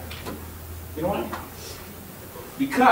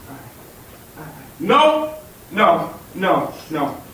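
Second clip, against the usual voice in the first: anguished denial; much slower than usual. Acted. Student refuses what he sees, anguished outburst. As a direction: cry out no and let it sink.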